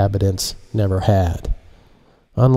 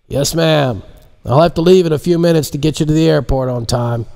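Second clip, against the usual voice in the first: pilot voice; 6 semitones higher than usual. Acted. Pilot replies on headset.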